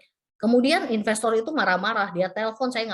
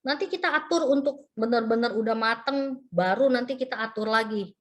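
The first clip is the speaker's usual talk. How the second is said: higher-pitched, eagerly obliging quote; delighted agreement; 5 semitones higher than usual. Retold or imitated. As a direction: imitate a developer gladly agreeing. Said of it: "disambut dengan sangat sukacita oleh pihak developer".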